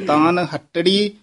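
ਹੱਟੜੀ said with a doubled retroflex ਟ; correct pronunciation. Shown as a demonstration. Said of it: "ਹੱਟੜੀ ਉਚਾਰਨ ਕਰਨਾ". (ਹੱਟੜੀ ਦਾ ਸਹੀ ਉਚਾਰਨ)

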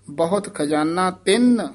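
"ਤਿੰਨ" with a held double n; nasalised tinn. Shown as a demonstration. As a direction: sound the n fully in "ਤਿੰਨ". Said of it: "ਤਿੰਨ ਉਚਾਰਨ ਕਰਨਾ ਹੈ".

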